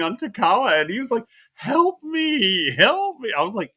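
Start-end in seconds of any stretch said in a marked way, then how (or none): 1.5-3.3 high whimpering help me, hammed up; high-pitched fake sobbing plea; mock crying plea. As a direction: beg like a crybaby in the corner. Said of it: "crying like a girl in the corner".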